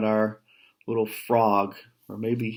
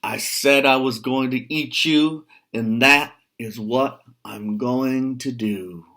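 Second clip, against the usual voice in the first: loud, raised troll roar; 3 semitones higher, 5 dB louder than usual. Acted. Troll roars at the billy goat. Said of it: "He roared at the billy goat".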